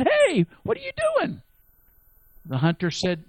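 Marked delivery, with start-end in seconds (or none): 0.0-1.4 high squeaky cartoon bear; talking bear, high. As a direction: play the bear as a startled little critter. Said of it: "the bear stopped and said".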